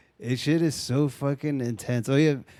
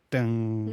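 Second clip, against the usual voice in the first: imitated bowstring twang. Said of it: "it's like".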